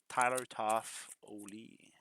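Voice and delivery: slow, deliberate "Tyler Toffoli", Tyler as Talœ; Quebec French accent. Shown as a demonstration. Breaker repeating his accent joke for viewers, slow Quebec French accent. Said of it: "Je répète".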